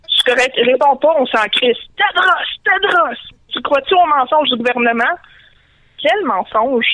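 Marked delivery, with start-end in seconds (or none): 2.0-3.2 high, hissed Gollum-like cry; creature cry. Acted. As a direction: croak it like a cave creature. Créature qui siffle son cri. (cri de créature aiguë, à la Gollum)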